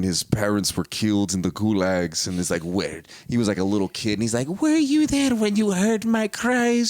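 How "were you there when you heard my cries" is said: high, slow kid wailing in a mock Russian accent. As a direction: cry it out as a little Russian boy, pitched way up. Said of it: "they're talking like this".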